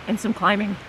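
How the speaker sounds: talking around hard candy; candy in the mouth; mouth full. Real, not acted. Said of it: "I've still got my candy in my mouth".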